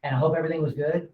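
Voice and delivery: warm sincere congratulations. Shown as a demonstration. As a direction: gently congratulate the buyer. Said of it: "I'm gonna look at you like you're the buyer".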